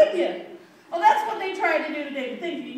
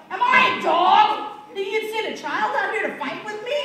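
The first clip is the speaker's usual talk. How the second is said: mildly raised, indignant mock yell; Goliath yelling. Giant insulted at facing a child, mock yelling. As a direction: act out the giant's affronted challenge. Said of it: "he's just yelling".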